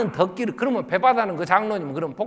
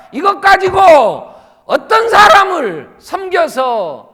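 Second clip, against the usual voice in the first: sermon rising to full-force cry; impassioned preaching; 9 semitones higher, 12 dB louder than usual. Real, not acted. (점점 고조되어 외치는 설교)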